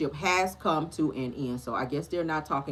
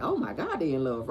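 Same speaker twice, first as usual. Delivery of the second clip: gushing reaction; 3 semitones lower than usual. Retold or imitated. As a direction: squeal it lightly, like a fan imitating herself. Acts out own gushing reaction.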